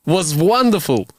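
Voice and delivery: put-on slow, high-pitched comic Soviet accent. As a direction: drag it out in a thick Soviet accent.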